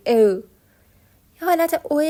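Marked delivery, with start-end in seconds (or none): 0.1-0.1 "او" glided from e into rounded ö; o with e before it. Shown as a demonstration. Teacher explains the umlaut, "او" as e blended into o. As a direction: say "او" as ö, starting from an e. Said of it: "اول ا بگیم، بعد او بگیم".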